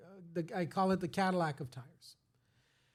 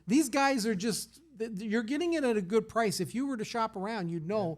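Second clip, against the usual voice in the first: insistent retold reply; 4 semitones higher, 4 dB louder than usual. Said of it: "I said".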